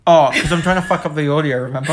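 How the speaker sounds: talking while chewing a nut; words round a bite of food; mouth full. Real, not acted. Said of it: "eat a cashew now".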